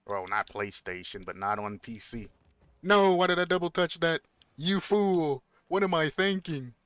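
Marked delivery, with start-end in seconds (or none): 2.8-6.7 loud, high frustrated outburst; exasperated self-scolding. Real, not acted. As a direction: yell at yourself for blowing it. Scolding himself after a misplay.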